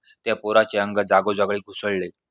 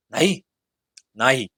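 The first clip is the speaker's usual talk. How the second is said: curt refusal; 3 semitones higher, slower than usual. A narrator's reading. Ghost refuses to leave the tree, testy. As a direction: refuse in one short word. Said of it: "तिरसटपणाचे उत्तर".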